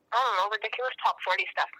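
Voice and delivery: talking while eating lunch; words round a bite of food; mouth full. Real, not acted. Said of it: "I'm talking with my mouth full".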